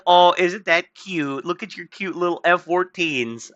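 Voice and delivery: put-on slow, patronising baby-talk tone; mock condescension. Mocking Iran's old jets, slow patronising tone. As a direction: talk down as if to a toddler with toys. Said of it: "It's just like".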